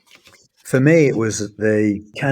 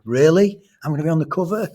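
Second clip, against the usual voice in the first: put-on excited kid; 7 semitones higher, faster than usual. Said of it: "So he was like".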